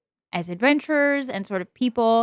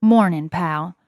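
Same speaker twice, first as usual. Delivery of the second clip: attempted Bronx accent, still rough; a friendly Bronx accent greeting a pal; 5 dB louder than usual. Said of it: "I'm still working on my Bronx accent".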